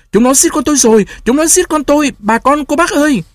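very high, sustained wail; crazed screaming. A narrator's reading. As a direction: cry out to the neighbours like a madwoman. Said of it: "chị thét như người điên".

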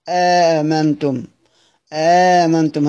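slow آمنتم starting straight on a long aa; Qunbul's reading. Shown as a demonstration. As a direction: say آمنتم slowly without the question hamza. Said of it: "قال". (نطق آمنتم ببطء بإسقاط الهمزة الأولى)

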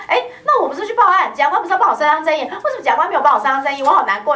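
high, loud aggrieved victim, hammed up; mock crying complaint. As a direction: play a wronged victim wailing to the prosecutor, half-hearted. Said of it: "他就哭啦". (假裝哭訴)

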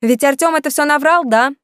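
high, loud call through the door. A narrator's reading. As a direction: call out to him in the other room. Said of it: "Женя крикнула ему".

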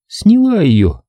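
lightly voiced Katie, offhand; simple girl's answer. A narrator's reading. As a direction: say it plainly as the girl. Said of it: "просто ответила она".

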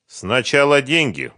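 loud, high, unbudging insistence; stubborn. A narrator's reading. Сухарев answering Фёдор's yelling, stubborn. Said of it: "упрямо сказал Сухарев".

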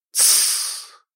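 scared whispered shush; frightened hush. Acted. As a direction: hush it out, afraid. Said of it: "испуганно воззвал я". (испуганный шёпот)

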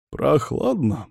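usual speaking voice

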